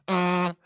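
high, buzzing "mm" like a horn; imitated car horn. Comparing his horn with the Audi's, imitated honk. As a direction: honk it with a closed mouth. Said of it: "I had to compare horns".

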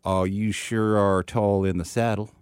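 slow, drawn-out Texan; actual Texan accent. Shown as a demonstration. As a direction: demonstrate a real Texan drawl. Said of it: "an actual Texan accent".

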